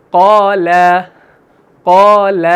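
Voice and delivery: قال with heavy aa after qaf, light aa after lam; recited قال, full-mouthed qaa and thin laa; thick then thin alif. Shown as a demonstration. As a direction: draw out both vowels of قال, first rounded, second light. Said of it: "آ والی آواز نکال رہے ہیں موٹی".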